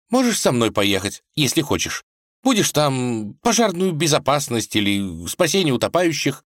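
put-on high, upset young wife's voice; a princess pleading for her father, sniffling; tearful tsarevna. A narrator's reading. Vasilisa argues with husband Vanya, high and upset.

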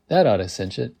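ordinary delivery, nothing marked

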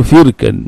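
فركا as firkan; فركا opening on "fir"; kasra on the fa. Shown as a demonstration. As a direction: say فركا with a short "i" after the f. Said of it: "بكسر الفاء".

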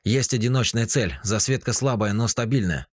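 excited radar operator; agitated report. A narrator's reading. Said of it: "взволнованный голос".

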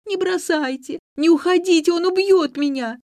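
high, loud desperate wail; wailing in terror. A narrator's reading. Nelli clinging to the narrator's knees, terrified wailing. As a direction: beg them not to leave, howling. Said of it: "вцепилась в мои колени и завыла".

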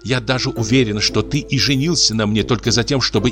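hysterical wife. Acted. Wife's hysterical reproach.

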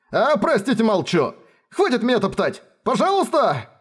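high frantic pleading. Acted. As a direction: beg her to stop stepping on you. Rainer is being trampled, begs.

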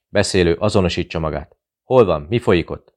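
loud, urgent demands; radio shouting. Acted. The radio operator shouts at the guards over the radio, loud. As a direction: bark it into the radio. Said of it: "kiabálta".

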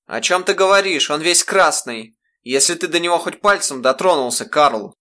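a mother rounding on her husband; frantic accusation. Acted.

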